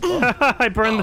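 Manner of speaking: slow words through real laughter; laughing. Real, not acted. Player confessing a blunder to friends, laughing.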